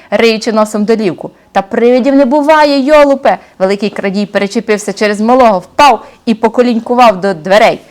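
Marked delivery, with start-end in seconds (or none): 1.5-3.4 сердитий бандит. Acted. Злодюга сварить малого.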